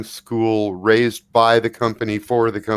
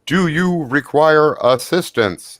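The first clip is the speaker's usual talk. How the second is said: slow, higher robotic drone voice; automated voice; 5 semitones higher, slower than usual. Acted. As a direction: speak like a police drone. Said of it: "an automated voice coming at you from above".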